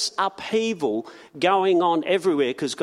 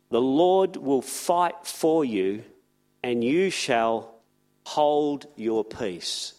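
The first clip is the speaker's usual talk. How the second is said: scripture reading; 4 semitones lower than usual. Shown as a demonstration. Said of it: "I just want to read it".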